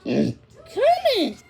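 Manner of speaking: high sharp exasperated call; barked name. A narrator's reading. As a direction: snap her name like a bark. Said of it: "I barked".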